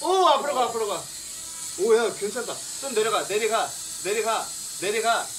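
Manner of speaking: excited high calling. Real, not acted. Calling directions to the drone.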